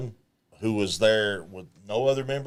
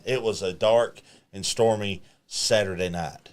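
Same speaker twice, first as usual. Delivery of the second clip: hushed creepy legend telling. Acted. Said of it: "Okay, gather around, kids".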